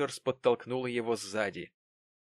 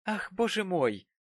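higher, mock-outraged exclamation; indignant; 8 semitones higher than usual. A narrator's reading. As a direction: pretend to be scandalised. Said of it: "мгновенно пришла в негодование".

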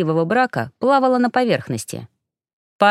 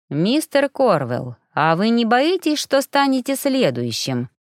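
blunt; 3 semitones higher than usual. Acted. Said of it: "Решив больше не церемониться, бросил Яр".

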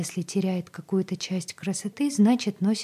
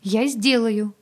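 confident declaration; 4 semitones higher, 6 dB louder, slower than usual. A narrator's reading. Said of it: "уверенно заявила она".

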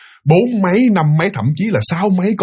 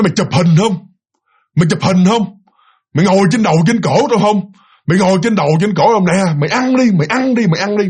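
possessed voice; 3 semitones higher than usual. Retold or imitated. Lightly voiced spirit taunting the onlooker through the husband's mouth. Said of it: "giọng nó ồm ồm hơn".

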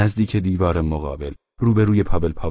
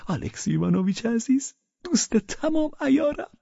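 very high, sugary plea; fawning drunk. A narrator's reading. Pavel fawns over Velchaninov after laughing. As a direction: coo the name like a drunk friend.

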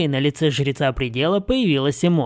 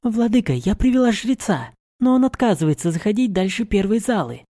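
put-on higher, eager servant girl; young woman voice; 6 semitones higher than usual. A narrator's reading. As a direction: report dutifully to your lord. Mari reports to master.

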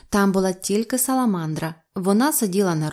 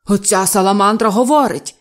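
loud, indignant exclamation; обурений крик; 8 dB louder than usual. A narrator's reading. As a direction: shout the accusation at him. Обурений директор кричить на Грекса. (гучно, обурено)

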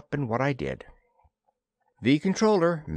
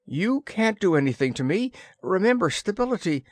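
panicky yell; 8 semitones higher than usual. A narrator's reading. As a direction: blurt it out in rising panic. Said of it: "I got panicky and yelled".

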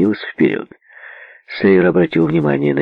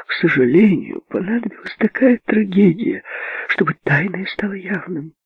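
prim spinster; 10 semitones higher than usual. Acted. Indignant spinster voiced high.

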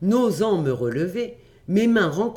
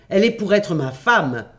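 louder, staking a claim; possessive outcry; 5 dB louder than usual. Acted. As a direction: declare it, raising your voice. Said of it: "m'écriai-je".

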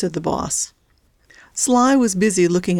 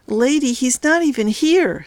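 exasperated, higher-pitched protest; giving up; 7 semitones higher than usual. A narrator's reading. Kidnapper to the crazy lady, giving up. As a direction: plead it, out of arguments. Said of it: "giving up".

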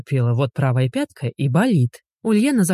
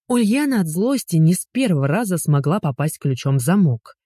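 ordinary delivery

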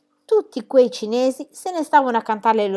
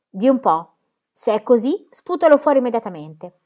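minacciosa; 3 semitones higher, 5 dB louder than usual. Acted. Pippi minaccia la bambina.

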